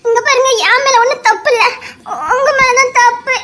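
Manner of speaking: half-laughing, half-crying protest; nervous laugh. Real, not acted. Woman laughs nervously defending herself after hitting him. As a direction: laugh through the panic.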